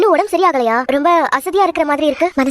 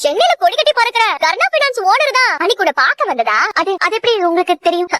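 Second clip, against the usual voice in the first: taunting; 2 semitones higher than usual. Acted. Warden baiting a prisoner about her secret, taunting. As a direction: needle with swinging, sing-song questions.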